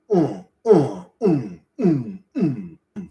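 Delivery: rhythmic falling "mm" grunts; imitated grunts. Showing viewers the frog man's loop, rhythmic mock grunts. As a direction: grunt out a repeating loop, each sliding down.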